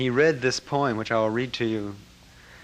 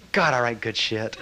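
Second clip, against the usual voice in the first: laughing boast; 3 dB louder than usual. Retold or imitated. Master joking to the room about his writing, laughing.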